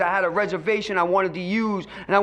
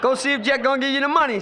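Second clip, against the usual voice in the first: mocking wife; 4 semitones higher than usual. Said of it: "She said".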